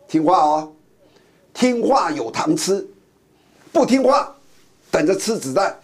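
threatening tone. Retold or imitated. America as a gunman threatening the world, in a lightly acted threatening tone. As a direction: menace them like a gunman handing out candy. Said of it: "用恐吓的口吻说".

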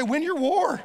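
cue the congregation to shout it back; a preacher prompts the congregation to repeat a rallying line; call and response. Shown as a demonstration. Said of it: "Come on, say".

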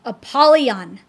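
loud warning call; Christian crying out to Apollyon. Acted. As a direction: shout the warning at the fiend. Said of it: "cried Christian".

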